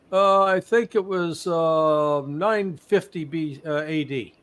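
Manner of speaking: a source fumbling for the date; hesitant reveal. Retold or imitated. Informant reveals ancient date, punchline.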